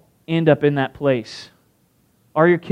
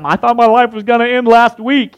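higher, louder, hammed-up exasperated husband; mock husband; 5 semitones higher, 6 dB louder than usual. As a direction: whine like a worn-out husband. Voicing husband's complaint.

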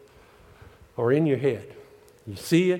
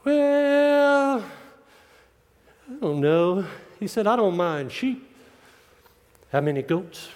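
put-on a light Australian drawl for the old preacher; Aussie accent; 2 semitones higher, slower than usual. Preacher imitates Bob's Aussie reply to the Lord, light Aussie accent. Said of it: "kinda Aussie accent".

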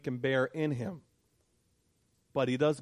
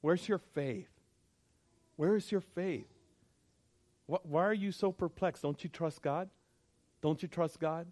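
dismissive rebuke; 2 semitones higher, 3 dB quieter than usual. Retold or imitated. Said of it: "another brother was sitting next to him saying".

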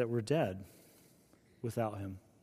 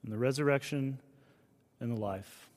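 much softer, tender hush; gentle whisper; 6 dB quieter than usual. Acted. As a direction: let it fall soft as a whisper. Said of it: "And he whispers".

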